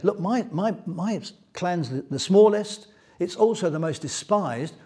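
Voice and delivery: mild imitation of an overwhelmed Saul; overwhelmed protest. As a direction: beg to be let off, a little panicked. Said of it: "He sounds overwhelmed".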